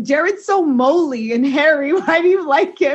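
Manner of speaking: Canadian accent impression. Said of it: "What's Daniel's accent?".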